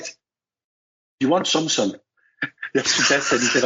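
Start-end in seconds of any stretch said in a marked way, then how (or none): 0.0-1.9 slow mumbled "do you want some" menace; mumbled threat. Retold or imitated. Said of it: "he looked at me and he mumbled".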